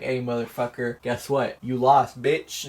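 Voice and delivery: taunting. Retold or imitated. Wife taunts before shooting him.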